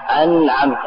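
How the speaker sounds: أنعمت with a vowelless nun; sukun on the nun. Shown as a demonstration. Teacher showing students the silent-vowel nun in أنعمت, sukun on nun. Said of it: "بإسكان النون".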